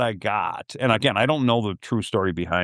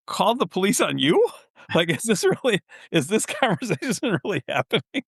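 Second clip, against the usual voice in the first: incredulous retort; 9 semitones higher than usual. Retold or imitated.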